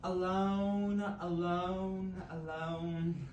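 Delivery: slow taunting repetition; mocking echo. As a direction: drag it out, teasing. Repeating mocking phrase, drawn out.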